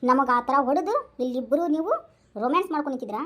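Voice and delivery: low, menacing vow of revenge; menacing threat. Acted. Acted attacker threatens the couple.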